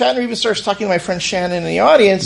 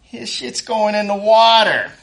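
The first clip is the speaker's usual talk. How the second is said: mock Shatner, drawn out and slow; slow hammed-up Shatner rant; lightly voiced Shatner, slow and punchy; 4 semitones higher, 3 dB louder, slower than usual. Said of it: "And yet Shatner's like".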